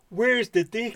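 a high, loud, laughing cry of disbelief; exasperated outburst. Retold or imitated. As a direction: throw it up in mock despair, laughing. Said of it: "I was like".

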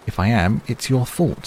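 heated, defensive outburst; angry. A narrator's reading. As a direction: fling the blame back hotly. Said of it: "no need to get angry".

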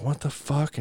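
retold bewildered exclamation; baffled. Teller recalling his shock as grandma pulls up, baffled.

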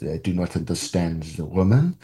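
a light, self-mocking stab at a French accent; bad French accent. Critic mimics Godard's take on women in a bad French accent. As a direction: quote Godard's view in a clumsy French accent. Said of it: "I apologize for my terrible accent".

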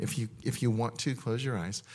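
soft ministry-time hush; hushed invitation. Real, not acted. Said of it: "So let's stop for a minute".

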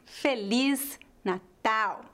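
slow, separated "Feliz Natal", stressing "liz" and "tal"; last-syllable stress. Shown as a demonstration. Teacher applying the stress rule, "Feliz Natal" stressed at each word's end. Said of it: "é a última".

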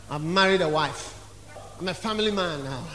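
low, quiet, mock-solemn husband; married man's excuse. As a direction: plead family duty, low and subdued.

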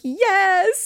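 high, eager, breathless yes; breathy eager yes. Retold or imitated. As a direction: gasp it out, eager and turned on. Acting out eager reply in bed.

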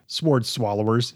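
"sword" as s-word, W audible; W pronounced in sword. Real, not acted. Podcaster saying sword as spelled, W sounded. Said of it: "It's got a W in it".

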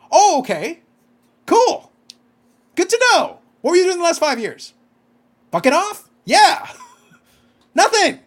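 high, loud mock cheer turning to laughter; over-the-top sarcastic delight. Real, not acted. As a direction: sneer at him with fake delight. Mocking Kevin Owens' sudden title interest.

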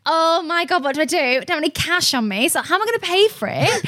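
high, hurried mock panic, pitched well up; replaying the shock of the ferry, half-joking; retold panic. Driver stuck on a ferry, calling to herself in high mock panic. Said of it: "It's, like, mad panic".

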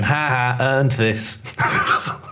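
taunting through cackles, voice put on; mocking laughter. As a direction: jeer like a smug lad laughing at a mug. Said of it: "they're laughing at you going".

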